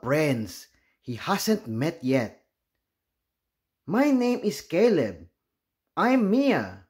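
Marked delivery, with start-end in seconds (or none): 3.9-6.9 put-on higher, light kid voices; young classmates introducing themselves; child voices. Children voiced in read story.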